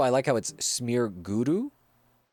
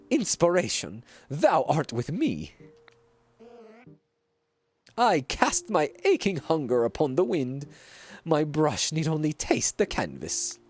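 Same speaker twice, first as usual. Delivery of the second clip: theatrical fake French; 3 semitones higher than usual. Continues the hammy painter character.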